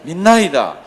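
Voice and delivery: loud, slow retold outcry; crying out. Father pleading with Jesus for help, crying out. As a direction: call it out as a loud, drawn plea. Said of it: "뭐라고 고함을 지릅니까".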